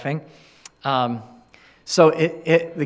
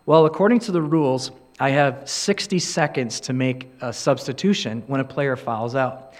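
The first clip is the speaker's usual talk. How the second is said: calm; 4 semitones lower than usual. Retold or imitated. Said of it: "calmly said".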